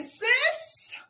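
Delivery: sincere sisterly warning; pleading advice. Retold or imitated. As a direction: talk her down gently but firmly. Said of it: "All I'm doing is saying".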